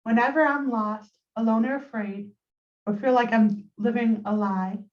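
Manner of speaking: measured poetry reading with pauses between lines; poem recitation. Acted. Poet reading own poem to listeners on a call, measured recitation. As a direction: recite it line by line, letting each phrase settle.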